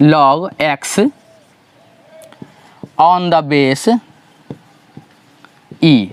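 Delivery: word by word with long pauses; slow dictated reading. Shown as a demonstration. Teacher showing students how to read log, slow and spaced. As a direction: dictate the notation slowly, piece by piece. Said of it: "इसको पढ़ते कैसे हैं".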